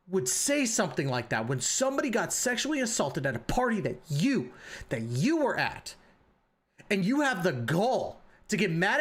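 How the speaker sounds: heated scolding with heavy stress on key words; indignant, really laying into him; pissed off. Real, not acted. Calling out Atsu over the party, angry and indignant. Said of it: "pissed me off".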